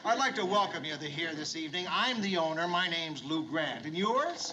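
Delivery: polished, rehearsed welcome speech; rehearsed host greeting. Acted. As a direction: run through the welcome line again, brisk. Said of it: "I'm gonna see to it".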